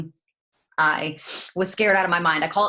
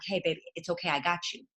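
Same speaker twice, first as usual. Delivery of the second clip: gentle reassurance; 2 semitones lower, 8 dB quieter, faster than usual. Retold or imitated. Coach reassures nervous new recruit.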